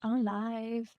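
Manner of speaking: playful whispered echo; hushed echo. Pretend. Co-host echoes the live announcement, hushed whisper. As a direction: whisper it back like a little aside.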